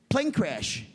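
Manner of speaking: lightly mimicked Italian messenger; imitated Italian accent. Italian man reporting bad news to banker, light Italian accent. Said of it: "an Italian midget".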